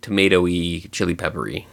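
talking between sips of coffee; coffee cup at the lips; while sipping a drink. Real, not acted. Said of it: "Sorry, I'm drinking coffee".

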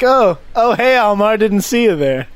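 high, put-on nonchalant greeting; feigned surprise. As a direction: pretend to only just notice someone. Feigning surprise at seeing Almar.

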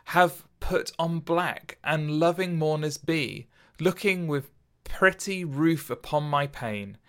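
slow, measured reading of a sonnet; poetry recitation. Acted. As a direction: recite it like verse, unhurried. Reads a Shakespeare sonnet aloud.

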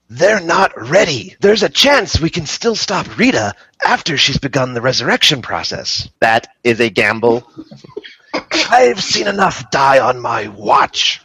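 a hint of an eerie mentor; creepy Keeper voice. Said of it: "I'll do creepy Keeper voice".

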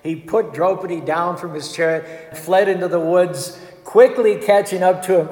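normal talking voice

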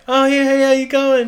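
high, chirpy fake-nice greeting; smarmy fake-friendly prosecutor. Mocking the smiling prosecutor in a high fake-friendly voice. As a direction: grin through it like you secretly hate them. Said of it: "he's just like".

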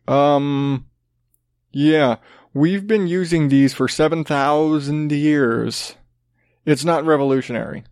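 lightly put-on uneducated Southern accent, slow start; a hint of a drawled Southern accent for the locals; mock Southern accent. Locals scoff at the hip stick brand, mild Southern accent. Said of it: "I always default to the, the really uneducated Southern accent".

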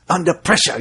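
mock-British sing-along quote; British accent. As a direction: kid imitating British "PRESH-uh". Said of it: "like that British way".

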